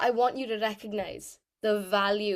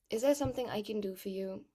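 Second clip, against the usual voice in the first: slower, softer, weary take; tired, slowed down; 4 dB quieter than usual. Shown as a demonstration. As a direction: drag it out like a tired character. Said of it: "You'd slow it down".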